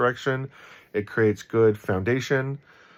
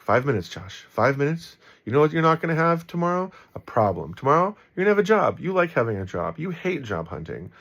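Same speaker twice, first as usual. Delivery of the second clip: rising higher and faster, urging himself on; self pep talk; 5 semitones higher than usual. Retold or imitated. Telling himself to hold it together, pep talk. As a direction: coach yourself through it, quicker and quicker. Coaching himself to stay calm.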